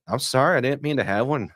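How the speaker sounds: mock-innocent apology in a U P accent; Upper Peninsula accent. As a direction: apologise in a put-on Yooper accent. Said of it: "Why do you have an accent?".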